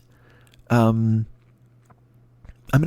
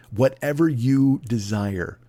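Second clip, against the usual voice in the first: slow sultry starlet purr; breathy vintage purr; much slower than usual. Pretend. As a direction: purr it like an old Hollywood starlet. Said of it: "cut my voice to sound like some Hollywood starlet".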